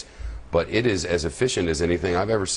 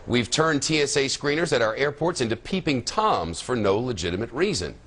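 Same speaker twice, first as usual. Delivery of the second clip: higher-pitched anchor read with punched key words; news introduction; 4 semitones higher than usual. Acted. Anchor briefing listeners on airport pat-downs, newsreader delivery.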